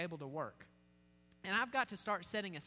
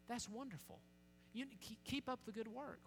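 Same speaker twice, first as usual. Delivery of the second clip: softer, higher-pitched praise; gentle encouragement; 5 semitones higher, 8 dB quieter than usual. Acted. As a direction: encourage them kindly, keeping it soft. Voices encouragement to a family.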